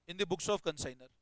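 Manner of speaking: slow, measured dictation. Real, not acted. Teacher dictating a journal entry to the class, slow dictation. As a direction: read it out slowly for note-takers.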